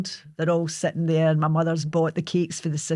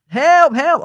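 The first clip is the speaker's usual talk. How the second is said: screamed an octave higher and louder; 9 semitones higher, 9 dB louder than usual. Retold or imitated. Child calling her mother again, higher and louder. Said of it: "So I have to lift it up an octave, make it a wee bit louder".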